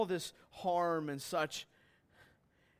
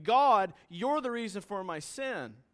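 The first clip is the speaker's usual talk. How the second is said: Jonah accusing God; 3 semitones higher, 5 dB louder than usual. Acted. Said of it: "looking at God and saying".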